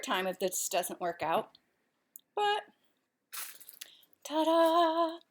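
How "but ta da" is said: high, loud ta-da; showy reveal. Real, not acted. Host reveals her meal to viewers, loud and showy. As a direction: present it with a loud flourish.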